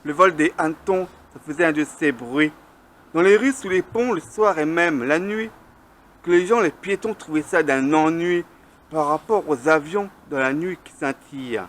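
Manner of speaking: measured verse reading, line by line; poem recitation. Acted. Poet reciting on noisy cockchafers in flight, measured declamation. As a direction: recite your poem with deliberate pauses between lines.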